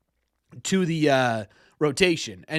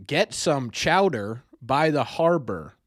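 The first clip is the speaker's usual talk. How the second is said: slow, deliberate Boston accent test line; accent test phrase; 2 semitones lower, much slower than usual. Shown as a demonstration. Streamer reads a Boston accent test line for chat, slowly. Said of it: "Corbin, please say".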